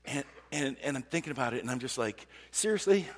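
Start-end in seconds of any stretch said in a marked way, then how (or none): 2.5-3.1 higher, incredulous outburst; imagined exasperated retort; frustrated. Acted. Driver silently arguing with somebody in the car, frustrated. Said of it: "I'm, like, frustrated with somebody".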